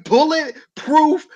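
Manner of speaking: slow, drawn-out announcer voice; slow announcer emphasis; mock commentator. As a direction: mimic the dramatic commentary. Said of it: "they was like".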